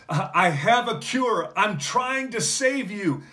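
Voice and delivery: high, loud, pleading cry to the attackers; desperate crying out. Retold or imitated. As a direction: call out high and loud, begging them to listen. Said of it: "he's crying out".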